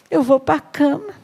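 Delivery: sulky Ahab. Acted. Ahab sulking, voiced by preacher.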